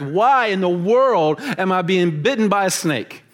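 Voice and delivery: rising despair at each new misfortune; a hammed-up Paul crying out why me; exasperated lament. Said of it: "I'm just thinking".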